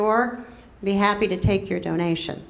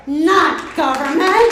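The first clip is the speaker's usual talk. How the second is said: rally emphasis; 6 semitones higher, 6 dB louder, slower than usual. Real, not acted. Rally climax repetition.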